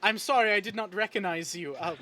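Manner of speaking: a hint of a nervous, starstruck young woman; flustered admirer. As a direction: stammer out an eager apology. NPC flustered apology to hero.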